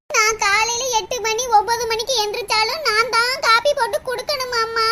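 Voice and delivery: low weepy whine ending in sobs; hammed-up tearful grumbling; tearful complaint. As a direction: moan about chores, then break down. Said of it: "அழுகுறத நிறுத்திட்டு".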